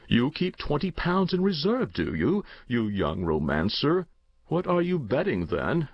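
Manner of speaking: amused uncle. Acted. Uncle to his young nephew about his bets, lightly teasing. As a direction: tease like an indulgent uncle, lightly acted.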